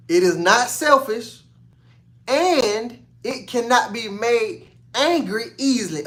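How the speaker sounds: slow scripture reading, each phrase weighed; slow, deliberate reading. Shown as a demonstration. Preacher reading scripture to his congregation, slow and deliberate. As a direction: lay each line out slowly and let it land. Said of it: "I'm gonna take my time with this one".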